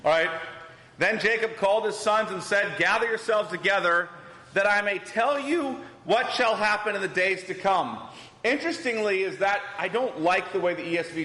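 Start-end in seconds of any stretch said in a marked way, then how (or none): 1.0-8.0 emphatic, projected Bible reading; scripture reading. Acted. Teacher reads Jacob's summons to his sons to the class, emphatic scripture reading. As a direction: read the verse out firmly to the room.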